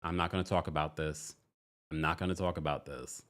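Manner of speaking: lightly voiced, low and soft refusal; tight-lipped refusal. Imitating an aunt avoiding talk about her sister, quietly closed-off. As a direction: shut the topic down quietly. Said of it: "Aunt Lori's face is sort of like".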